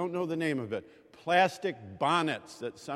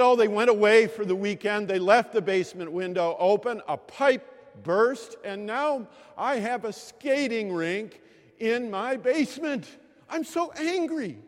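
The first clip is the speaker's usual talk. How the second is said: put-on indignant old lady; 6 semitones higher, 6 dB louder than usual. Iva venting about burst pipe.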